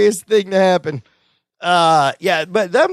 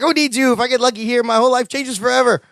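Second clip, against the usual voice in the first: higher-pitched eager retelling; lightly acted thrill at a big chance; mildly excited; 6 semitones higher, faster than usual. Retelling Larry jumping up at the ducks, mildly excited.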